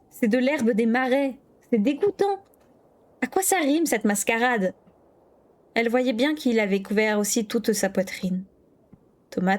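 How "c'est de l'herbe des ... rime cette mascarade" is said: scolding disgust. A narrator's reading. Kira scolds Matt about the marsh grass, exasperated. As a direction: scold the boy with distaste.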